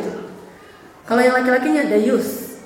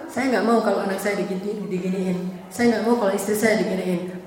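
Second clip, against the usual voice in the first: quoted husband's plea; 5 semitones lower, 6 dB quieter than usual. Acted. Voicing a husband's motive as quote.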